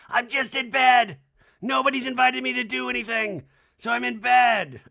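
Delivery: loud, high mock whine from bed; Kyle. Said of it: "and Kyle's in".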